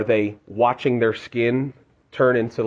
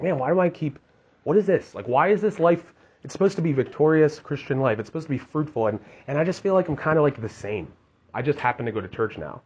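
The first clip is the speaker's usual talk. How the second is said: higher, exasperated complaint; frustrated believer; 4 semitones higher than usual. Retold or imitated. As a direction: vent like someone stuck in a rut. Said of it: "You're just like".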